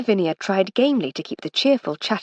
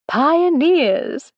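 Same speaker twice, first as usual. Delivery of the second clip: with a laugh; 9 semitones higher, 6 dB louder than usual. A narrator's reading. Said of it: "said Lady Lavinia with a laugh".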